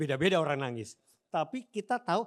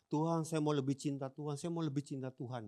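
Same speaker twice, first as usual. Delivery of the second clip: mock earnest prayer; 5 dB quieter than usual. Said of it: "bahasa ungkapan dia waktu sama Tuhan doa".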